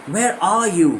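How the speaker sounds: where leads and is hit first; stress on where. Shown as a demonstration. Teacher giving the second stress version. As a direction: open hard on where. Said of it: "तीनों में different meaning".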